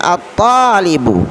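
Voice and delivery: "at-talibu" with doubled t and no l; al not read. Shown as a demonstration. Teacher models the next word, "at-talibu" without l. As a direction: glide from a straight into t in "at-talibu", long a. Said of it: "tidak boleh dibaca al".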